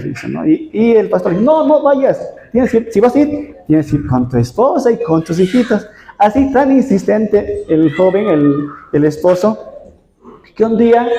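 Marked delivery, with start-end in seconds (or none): 1.4-5.9 higher, insistent no, no; firm pastoral warning. Retold or imitated. Pastor urging the young husband not to go alone, insistent and higher. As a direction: warn him off like a worried pastor.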